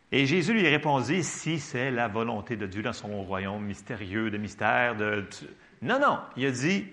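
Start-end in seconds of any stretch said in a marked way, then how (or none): 1.2-5.3 mock solemn. Preacher parodying what Jesus did not say, mock solemn. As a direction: drone it lower, trailing into vagueness.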